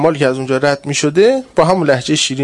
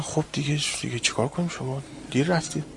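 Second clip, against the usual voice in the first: calm quiet reply; 12 dB quieter than usual. Retold or imitated. Official's cool reply on phone.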